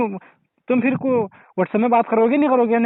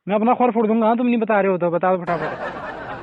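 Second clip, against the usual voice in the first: laughing while demanding. Real, not acted. Prank call turning silly.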